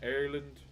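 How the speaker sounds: "Ireland" said as the Irish say it; Irish-style Ireland. Acted. Streamer reading out viewers' countries, "Ireland" in a borrowed Irish accent. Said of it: "Had to say Ireland like that".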